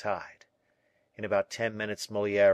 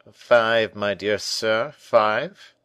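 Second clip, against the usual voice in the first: emphatic correction; 2 semitones higher, 10 dB louder, much slower than usual. Acted. Percerin correcting the captain firmly.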